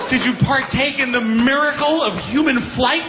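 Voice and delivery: sarcastic amazed listener; mock awe. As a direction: ham up the marvel of flight. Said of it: "mocking listener".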